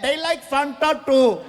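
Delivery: cheery imitated yell in an accent; yelling helpers. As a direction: shout helpfully like someone in a crowd. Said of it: "They're yelling".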